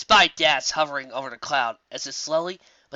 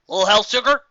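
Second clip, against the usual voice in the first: Applejack asks; 8 semitones higher, 9 dB louder than usual. Acted. Applejack asks Pinkie for help, high and country. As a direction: ask it folksy.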